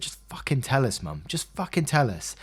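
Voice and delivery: plead, a touch of bawling; retold tearful plea. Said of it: "And I was bawling".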